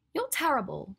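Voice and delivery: high, loud mock-outraged cry; playfully scandalized, eyes wide; indignant. Hermione mock-outraged at Draco's teasing, high and loud. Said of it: "gasped indignantly".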